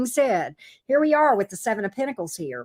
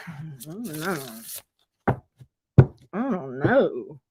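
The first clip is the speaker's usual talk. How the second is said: mock helpless sigh; 6 semitones lower, slower than usual. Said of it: "And then you're like".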